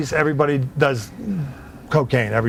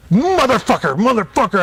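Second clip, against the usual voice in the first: mock angry cursing; 5 semitones higher than usual. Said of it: "He's red-faced".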